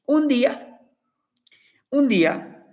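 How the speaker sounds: hushed "un día" whispered to listeners; a secret-sharing whisper; whispered storytelling. A narrator's reading. Storyteller to children, hushed whisper.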